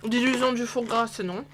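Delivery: talking with mouth full; words round a bite. Real, not acted. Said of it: "arrêter de parler la bouche pleine".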